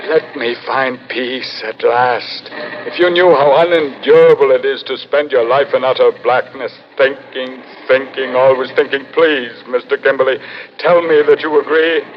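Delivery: begging to be released from endless darkness; pleading weariness. Acted. Head begging for death.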